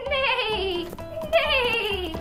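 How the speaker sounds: neighing like a horse; playful horse whinny. Pretend.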